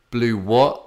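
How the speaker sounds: baffled. Retold or imitated. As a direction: imitate a baffled shop clerk. Retold baffled clerk asking back.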